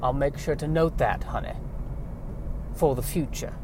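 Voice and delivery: a soft, dry, lightly Southern farm wife; quiet Southern wife. Acted. Wife quietly humouring her husband, in a light Southern accent. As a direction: mutter it back with a touch of Southern sarcasm. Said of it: "has a southern bent".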